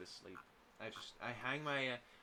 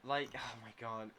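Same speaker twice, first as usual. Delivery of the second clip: frustrated rant; 4 dB louder than usual. Real, not acted. Player frustrated at character.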